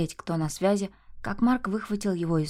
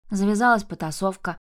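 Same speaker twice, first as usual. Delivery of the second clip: ordinary delivery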